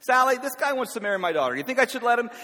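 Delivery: father booming across the breakfast table to the waitress; loud. Retold or imitated. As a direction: call it out so the whole restaurant turns. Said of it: "Says it so loud".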